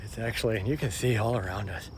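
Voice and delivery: breathless, talking mid-jog; while running. Real, not acted. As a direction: speak while jogging, between breaths. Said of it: "which is why I'm running".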